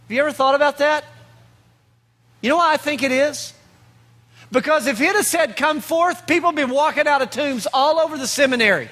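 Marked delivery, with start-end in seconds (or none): 4.5-8.9 higher and faster, building to a laughing shout; preacher's punchline rising high and quick; excited punchline. Real, not acted. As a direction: land the joke with a burst of energy. Punchline of a sermon joke.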